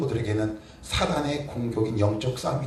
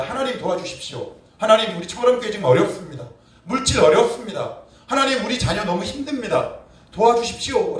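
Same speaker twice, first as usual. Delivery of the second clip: raised, high-pitched plea to God; crying out in prayer; 7 semitones higher, 5 dB louder than usual. Acted. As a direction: call out loudly and urgently for help. Acts out the prayer people fail to cry.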